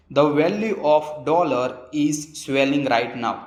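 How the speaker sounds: very slow, carefully spaced English sentence; slow example reading. Shown as a demonstration. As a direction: read the example slowly for learners. (धीमे-धीमे उदाहरण पढ़ना)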